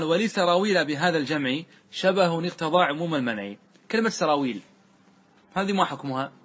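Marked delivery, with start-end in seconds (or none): 0.0-3.5 sing-song reading of the grammar verse; verse recitation. Acted. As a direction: recite the verse with a steady measured cadence. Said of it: "ثم قال".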